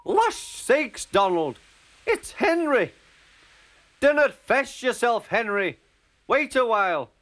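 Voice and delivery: high, loud Scottish call; very high-pitched Scottish rescuer; excited Scottish engine. Acted. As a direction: call out to a stranded friend in Scots. Scottish twin engines calling to Henry.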